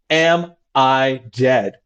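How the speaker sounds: very slow, matter-of-fact; calm casual question. Retold or imitated. Therapist imitating the patient, calmly asking if dead. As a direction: ask it like ordering onion rings. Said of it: "In that tone of voice".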